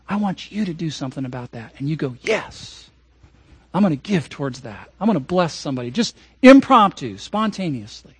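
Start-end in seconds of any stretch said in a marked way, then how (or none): 0.1-1.7 low, hushed near-whisper; imitated whisper. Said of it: "the Holy Spirit whispers to you". 2.2-5.9 soft, low acted reply; hushed resolve.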